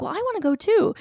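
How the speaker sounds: casual tag-along request; teen son chiming in. Retold or imitated. Mother quoting her teenage son asking to come, lightly voiced. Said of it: "is like".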